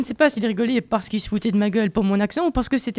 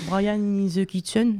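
put-on school English accent; slower than usual. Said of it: "sorry for the accent".

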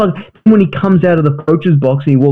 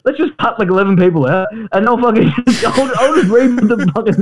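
manic coach impression; faster than usual. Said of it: "He was sitting there going like".

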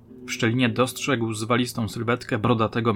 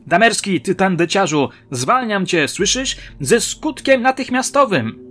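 loud, high enraged shouting; furious roar; 8 semitones higher, 6 dB louder than usual. A narrator's reading. Director firing the actor from the corridor, roaring furiously. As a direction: bellow it in a rage. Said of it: "dobiegł ich wściekły ryk".

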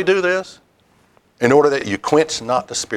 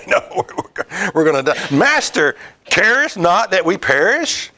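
mock panic; 5 semitones higher than usual. Disciples wake Jesus in fear.

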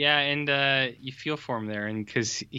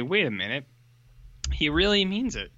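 dawning surprise; 4 semitones higher than usual. Retold or imitated. Kids realise he means it.

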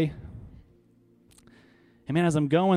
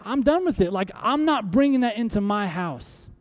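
defiant refusal; 4 semitones higher than usual. Pretend. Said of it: "and you say".

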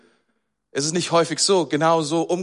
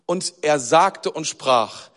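slow demo; 2 semitones lower, much slower than usual. Shown as a demonstration. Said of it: "Immer solche Doppelverben".

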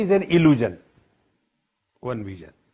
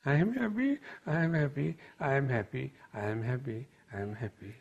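changing tone; 8 dB quieter than usual. Retold or imitated. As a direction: repeat it, settling down and fading away. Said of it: "her tone changed".

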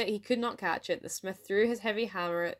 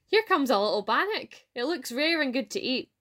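high, raised-voice storybook astonishment; surprised cry; 6 semitones higher, 5 dB louder than usual. A narrator's reading. Farmer telling his wife about the bannock, surprised cry. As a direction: exclaim it in excited surprise. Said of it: "cried out in surprise".

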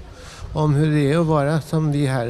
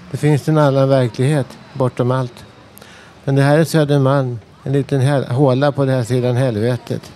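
impassioned declamation. Acted. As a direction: preach it at the audience, pressing each question. Declaims monologue, growing forceful.

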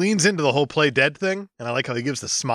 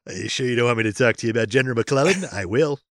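historian voice; 4 semitones lower, faster than usual. Pretend. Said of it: "if you're gonna use that tone of voice".

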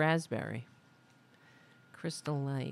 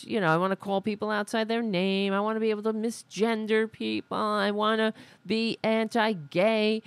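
insistent, slightly raised mocking voice; mock complaint; 3 semitones higher than usual. Host mimics canceled people demanding no repercussions, mock complaint.

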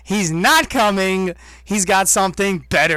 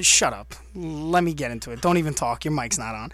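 ordinary talk

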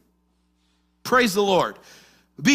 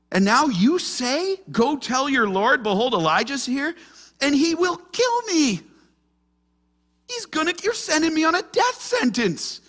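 frightened protest; 8 semitones higher than usual. Retold or imitated. Obadiah protesting fearfully to Elijah about Ahab. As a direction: beg like you're being sent to die.

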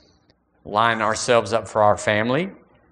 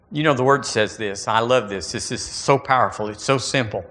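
usual speaking voice

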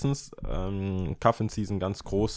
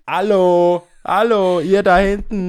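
high, loud calling out; hammed-up bouncer-style shout to the queue; mock call across the queue; 11 semitones higher, 10 dB louder, slower than usual. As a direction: call over the crowd to the ones at the back. Acting someone calling to the queue.

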